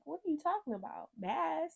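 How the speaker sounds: high-pitched bewildered questions; retold panicky confusion; confused, freaking out. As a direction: fire back in alarmed disbelief, voice shooting up. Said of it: "I'm confused at this point".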